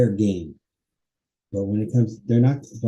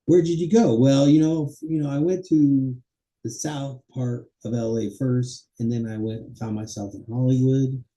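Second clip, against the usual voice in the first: acted chat; 3 semitones higher than usual. Shown as a demonstration. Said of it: "Chronological organization".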